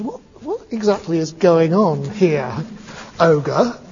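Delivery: mock-stern confrontation; questioning. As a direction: demand an explanation, lightly acted. Buddha confronts ogre holding boy.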